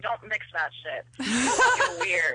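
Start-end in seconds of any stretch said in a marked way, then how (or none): 1.2-2.3 slow laughing high words; giggling through the words. Real, not acted. Caller laughing about mixing drinks.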